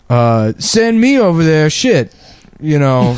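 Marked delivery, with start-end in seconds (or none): 0.6-2.1 Steve Harvey impression. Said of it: "And he's like".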